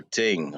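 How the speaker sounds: "ting" with a plain t for th; "ting" starting on a hard t. Shown as a demonstration. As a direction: say "ting", tongue kept behind the teeth. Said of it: "may not pronounce T H".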